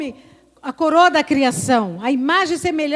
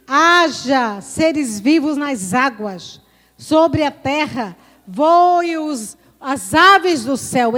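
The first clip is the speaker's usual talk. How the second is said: slow, louder creation command; divine decree; 4 dB louder, much slower than usual. Acted. Preacher voicing God creating living things, slow and loud. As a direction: speak each word as a command. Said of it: "Deus disse".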